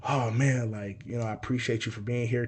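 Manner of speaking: quiet thanks. Retold or imitated. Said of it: "that energy changed".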